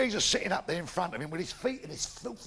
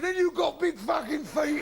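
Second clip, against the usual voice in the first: punchline shout; 6 semitones higher than usual. Acted.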